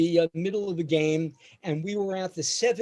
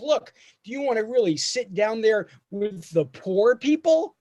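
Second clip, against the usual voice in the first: snobbish dad; 5 semitones higher than usual. Retold or imitated. Dad mocking the poor people.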